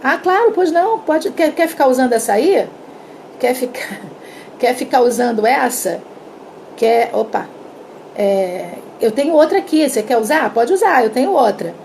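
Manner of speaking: gushing, obliging colleague; eager helpful reply. Retold or imitated. Márcia happily offering her pen, eager and obliging. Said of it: "A Márcia vai dizer assim".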